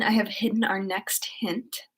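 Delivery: conspiratorial whisper about the hidden hint; playful secret whisper. Pretend.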